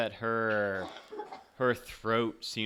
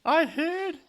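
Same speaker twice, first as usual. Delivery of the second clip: drifting, wistful ghost; 11 dB louder than usual. Acted. Plays the ghost.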